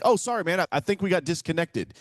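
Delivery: high-pitched mock apology; feigned innocence. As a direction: play dumb, pretending to be sorry. Feigns innocence after hang-up.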